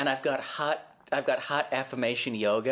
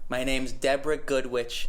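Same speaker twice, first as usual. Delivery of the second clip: put-on Massachusetts accent. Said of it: "You sound like you're from Massachusetts".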